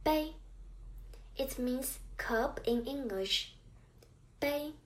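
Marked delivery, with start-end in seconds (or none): 0.0-0.3 "bei" held high and level; first tone bei. Shown as a demonstration. Teacher modelling the first tone word "bei" for learners. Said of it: "Chinese word with the first tone is". 4.4-4.7 "bei" held high and level; first tone bei. Shown as a demonstration. Teacher modelling the first tone word "bei" for learners. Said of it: "first tone".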